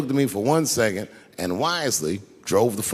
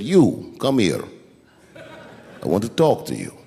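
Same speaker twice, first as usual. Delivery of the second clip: low, slow, unhurried mobster calm; calm as a cucumber; 6 semitones lower, slower than usual. Retold or imitated. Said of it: "he was calm as a cucumber".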